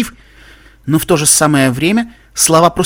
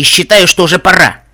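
louder, higher, forceful declaration; insistent; 5 semitones higher, 8 dB louder than usual. A narrator's reading. Narrator insisting to friends it is time, forceful. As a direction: drive it home with raised voice. Heroine insists after stamping.

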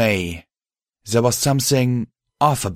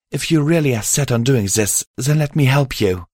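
higher-pitched, earnest mare; earnest alicorn mare; 5 semitones higher than usual. Acted. Mare offering to join her friend, earnest. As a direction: offer help in the mare's raised voice.

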